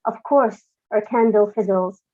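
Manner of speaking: measured, deliberate poem reading; poetry reading. Acted. Reads her own poem.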